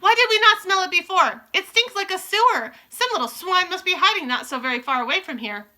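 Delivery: high, loud hunting witch; angry witches. Acted. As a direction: hunt with fury. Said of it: "witches hunting".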